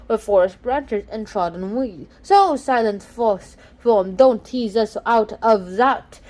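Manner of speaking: slow, solemn recital of verse; poem recital. Acted. Student reciting Keats to class, slow and solemn. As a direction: let the ode lines linger.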